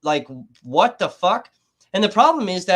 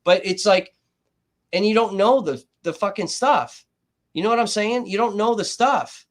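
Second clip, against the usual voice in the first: getting worked up; 4 semitones higher, 4 dB louder than usual. Real, not acted. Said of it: "I'm getting worked up".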